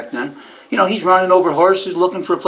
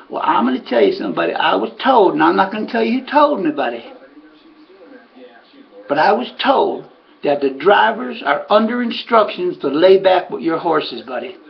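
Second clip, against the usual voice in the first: imitated southerner, emphatic and confiding; lightly put-on southern voice; Ray's southern accent; 2 semitones higher than usual. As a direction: pass on a rumour in a southern accent. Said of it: "talk with that southern accent".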